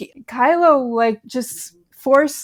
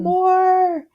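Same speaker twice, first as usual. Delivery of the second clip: higher-pitched, drawn-out imitation of an unhinged order; a hint of mania on a raised, stretched word; mock maniac commander; 10 semitones higher than usual. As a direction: lightly mimic a crazed commander demanding fire. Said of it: "just a maniac in that".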